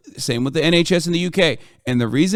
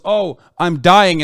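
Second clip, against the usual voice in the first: slow, higher, louder mock moan of a dying patient; 4 semitones higher, 5 dB louder, much slower than usual. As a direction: drag it out like a hammed-up dying patient. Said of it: "goes to the emergency room and goes".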